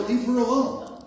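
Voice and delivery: slow hammed-up yell of deliverance; deliverance shout. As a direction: drive the spirit out with a shout. Lord rebukes the pervert.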